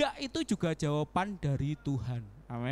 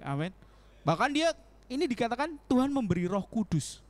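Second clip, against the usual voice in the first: usual speaking voice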